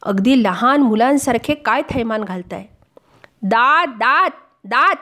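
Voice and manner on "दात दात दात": angry retort. Retold or imitated. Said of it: "मी चिडून म्हणालो".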